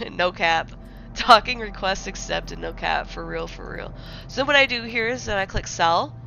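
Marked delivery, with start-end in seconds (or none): 0.1-3.9 lightly voiced Gen Z voiceover, drawn-out; mock system announcer with a hint of Gen Z slang; Gen Z brain rot. Shown as a demonstration. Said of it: "Make Aura totally Gen Z brain rot".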